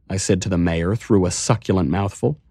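ordinary delivery, nothing marked

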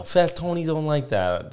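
badly faked Tony Soprano mobster accent; terrible mobster accent. Host testing out Fat Tony, in a shaky-attempt mobster accent. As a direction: put on a poor Italian-American gangster accent. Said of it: "That's a terrible accent".

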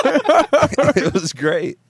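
long, high, stretched out; drawn-out high exclamation. Real, not acted.

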